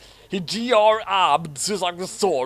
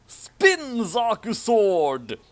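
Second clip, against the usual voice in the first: slow, loud, higher battle cry; anime attack call; 7 semitones higher, 4 dB louder, much slower than usual. Acted. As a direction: call out the special move like an anime hero. Reading a battle cry from fan fiction.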